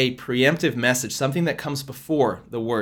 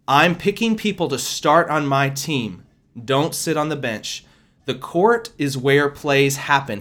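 firm, louder preaching voice, the Lord speaking through her; prophetic proclamation; 3 dB louder than usual. Acted. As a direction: proclaim it slow and weighty like a prophecy. Continues prophetic word.

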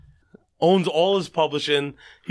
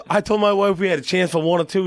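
mock Southern voice, a bit higher; 3 semitones higher than usual. Singer recalling what he told his wife, mock Southern accent. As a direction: retell it with an overdone Southern twang. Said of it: "he's, like, a little too Southern".

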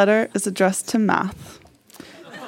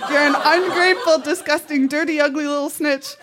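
higher, half-laughing string of insults; mock insult; 4 semitones higher than usual. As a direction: spit out the insults while fighting a laugh. Insult letter read aloud.

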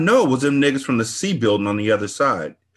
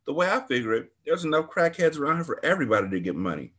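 excited gossip; 5 semitones higher than usual. Acted. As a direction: ramble on like it's a big fight. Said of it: "She acted excited".

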